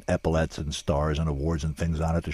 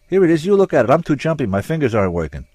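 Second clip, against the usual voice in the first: high, jittery and fumbling; nervous; 11 semitones higher, 10 dB louder, faster than usual. A narrator's reading. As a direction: sound too jumpy to hold a wallet. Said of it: "didn't have to pretend nervousness".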